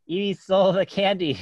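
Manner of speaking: hint of a whiny kid telling on his sister; child's accusation. Five-year-old son accuses sister.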